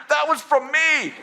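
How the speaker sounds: high, slow, laughing admission; sheepish laughing confession. Retold or imitated. Admitting to his friend the word was his own, laughing.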